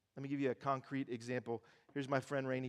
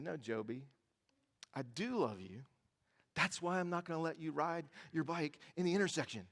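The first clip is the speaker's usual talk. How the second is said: reassuring mom; 4 dB quieter than usual. Retold or imitated. Mom explains to her upset son, gently reassuring. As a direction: settle the child down gently.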